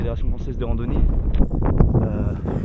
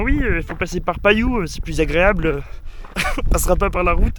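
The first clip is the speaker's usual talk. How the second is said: quoting the man; 5 semitones higher, 4 dB louder than usual. Retold or imitated. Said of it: "le monsieur il nous a dit".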